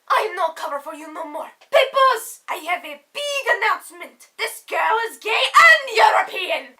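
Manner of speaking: hammed-up public announcement; mock announcement. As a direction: shout it to the crowd like big news. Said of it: "I was like".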